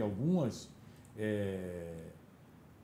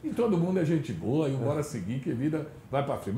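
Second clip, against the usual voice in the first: sarcastic; 2 semitones higher, 4 dB louder than usual. Retold or imitated. Mock pardon of politicians, loud.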